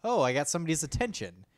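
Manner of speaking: put-on high whimpering baby voice; high little baby, sniffling then chirpy; crying baby voice. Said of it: "He was like".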